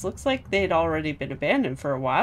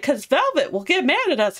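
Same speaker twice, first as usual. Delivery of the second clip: worried Eleanor; 8 semitones higher, 3 dB louder than usual. Retold or imitated. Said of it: "she's all like".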